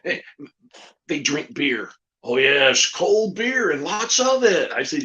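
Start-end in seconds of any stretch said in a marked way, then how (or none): 2.2-4.7 eager, slow puppet voice. Acted. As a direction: savour every word. Puppet voice in ventriloquist act.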